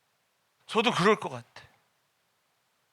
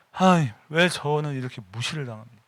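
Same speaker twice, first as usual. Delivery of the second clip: aggrieved prayer. Retold or imitated. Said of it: "막 이런 기도가 나".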